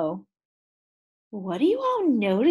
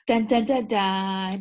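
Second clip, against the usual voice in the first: 1 dramatic dun dun dun; slower than usual. Shown as a demonstration. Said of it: "Do we have a problem in the story".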